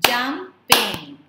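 "Jumping" in two loud beats; syllable by syllable. Shown as a demonstration. Teacher leading clapping practice, "Jumping" split in two. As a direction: punch out "Jumping" as jum, ping. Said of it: "identify syllables by clapping".

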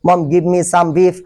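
very slow, each word apart; slow teaching drill. Shown as a demonstration. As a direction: drill it slowly for learners. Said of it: "এরকম ভাবে".

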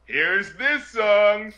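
drawn-out mock announcing; slow, mock-presenter delivery; mock title announcement. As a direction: stretch each word like a cheesy title. Mock title card read aloud.

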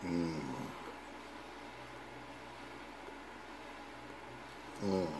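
lips closed around stem; puffing smoke between words; pipe in mouth. Real, not acted. Seen 0: Pipe stem in mouth during "Mm", removed before "Oh, yeah.

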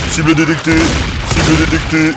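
flat robotic readout; toy robot voice. Pretend. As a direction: repeat it like a robot. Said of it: "je suis un robot".

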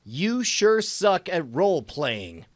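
slow retake. Shown as a demonstration. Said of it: "retake after mumbling".

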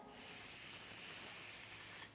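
S voiced as a long unvoiced hiss; just hiss the S, no letter name; hissed s sound. Shown as a demonstration. Teacher asks which letter makes this sound. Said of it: "a letra que faz esse som, ó?".

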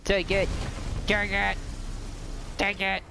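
yelling so hard the voice breaks; voice cracking shout. Real, not acted. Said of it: "Whoa, that voice crack though".

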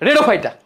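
রেডোফাইটা as "re-do-fai-ta"; altered pronunciation. Shown as a demonstration. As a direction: say রেডোফাইটা with "red" up front. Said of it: "আর রোডোফাইটার উচ্চারণ করলাম".

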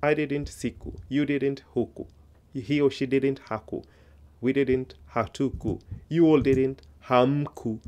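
brisk recited drill, English then Swahili; teacher's rhythmic recap of paired phrases; memorization drill. Shown as a demonstration. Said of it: "this is how I want you to learn it".

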